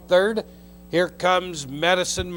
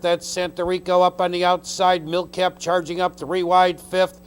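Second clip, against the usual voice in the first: race caller; 3 dB louder than usual. Real, not acted. Race call stretch run.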